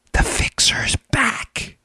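slow, hushed spooky whisper; dramatic whisper. Acted. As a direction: breathe it like a conspiracy reveal. Dramatic aside about the fixer.

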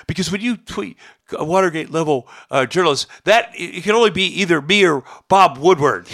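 retold irritation. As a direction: scold with a touch of mock outrage. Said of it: "he was really mad".

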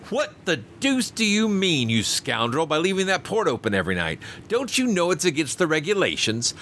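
high, heated tirade at a careless steward; furious scolding. A narrator's reading. Passenger angrily scolds the steward over the open port, high and furious. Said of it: "I was exceedingly wroth".

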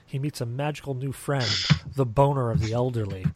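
dramatic trailer narrator; movie trailer voice. Pretend. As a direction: read it like a film trailer. Movie trailer read of card.

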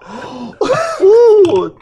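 loud, high scandalised gasp; shocked gasp. Retold or imitated. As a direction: gasp like an outraged English parent. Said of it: "all the English parents were like".

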